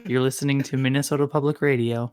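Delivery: brisk public-radio host sign-on; lightly put-on radio announcer; NPR station ident. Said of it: "That's exactly what it sounds like".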